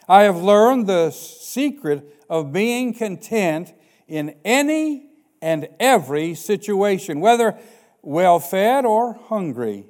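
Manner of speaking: slow measured pulpit reading; scripture reading. Acted. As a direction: read Paul's words with weight. Reads Philippians aloud.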